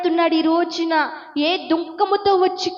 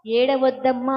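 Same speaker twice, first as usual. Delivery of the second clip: tender comfort, lower; 5 semitones lower than usual. Retold or imitated. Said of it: "ఆమెను చూసి ఏమన్నాడు".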